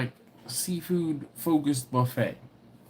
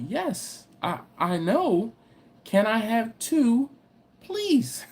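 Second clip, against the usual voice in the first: imitating a kid who just wants his two oysters; kid insisting; 7 semitones higher, much slower than usual. Son pressing the oyster shucker, high and insistent. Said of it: "my son kinda leans in and was like".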